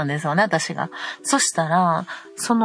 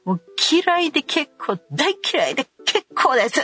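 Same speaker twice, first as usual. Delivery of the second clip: much higher, cutting snap-back; defiant retort; 8 semitones higher than usual. Retold or imitated. Mother answering her son's I hate you, defiant. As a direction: throw it back at him coldly.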